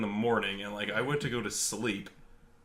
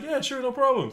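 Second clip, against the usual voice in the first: imitating the guy; 3 dB louder than usual. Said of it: "And the guy's like".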